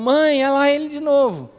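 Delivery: mock little sister voice, child-like yelling. Retelling a childhood night, a sister calling out to mom: imitating Renata shouting for mom. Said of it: "ela gritava".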